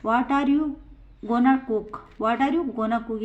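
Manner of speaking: slow, clear example for students; teacher reading it out slowly to the class; slow model sentence. Shown as a demonstration. Teacher models the sentence, slow and clear. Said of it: "चौथा example है".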